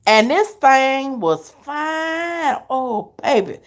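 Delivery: slow, drawn-out admiration; sly, lingering praise; savoring. Real, not acted. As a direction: stretch it out, savor every word. Savoring a handsome man.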